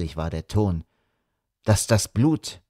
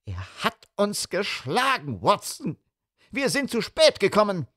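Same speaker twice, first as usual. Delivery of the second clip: despairing cry; 9 semitones higher, 3 dB quieter than usual. A narrator's reading.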